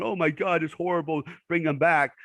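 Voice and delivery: a hint of a hand-wringing couch potato; mock whiny civilians. Mocking couch potatoes' complaints.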